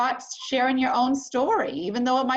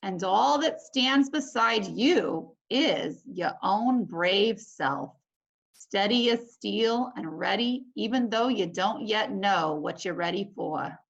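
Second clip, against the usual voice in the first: slow, steady storybook reading; story reading; 2 semitones lower, slower than usual. Acted. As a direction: linger on each phrase for the class. Teacher reads picture book aloud.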